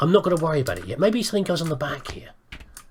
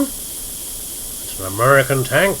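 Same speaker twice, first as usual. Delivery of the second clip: slow mock American accent; deliberately slow, hammy American; 4 dB louder, much slower than usual. Shown as a demonstration. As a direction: put on a bad American accent, drawn out. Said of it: "That's my American accent".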